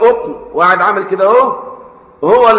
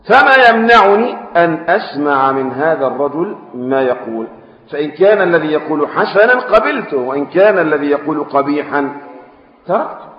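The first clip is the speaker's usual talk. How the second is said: slow formal classical Arabic reading; hadith recitation; slower than usual. A narrator's reading. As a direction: read the text slowly and solemnly. (قراءة الحديث ببطء ووقار)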